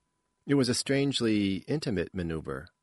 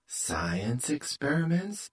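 buzzing voice; 6 semitones higher, slower than usual. A narrator's reading. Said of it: "buzzed Plus".

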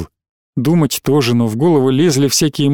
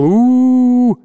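high, loud hooting u-u calls; hooting cry back; 9 semitones higher, 3 dB louder than usual. A narrator's reading. The padded-jacket man hooting back at the kids, loud. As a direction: hoot back at the children. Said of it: "он в ответ им кричал".

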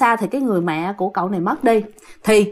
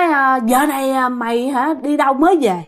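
scolding; 3 semitones higher than usual. Retold or imitated. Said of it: "ổng chửi".

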